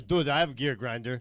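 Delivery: put-on Russian accent. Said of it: "I don't speak like that".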